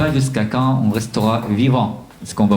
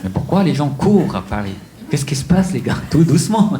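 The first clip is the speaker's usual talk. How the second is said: higher-pitched, mock-bewildered questioning; bewildered newcomer; 4 semitones higher than usual. Newcomer to Paris asking the running crowd what is happening, bewildered. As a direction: act out puzzlement, pitch jumping up.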